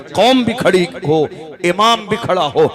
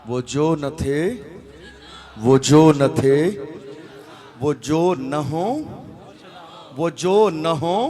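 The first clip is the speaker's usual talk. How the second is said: slow recital; much slower than usual. Shown as a demonstration.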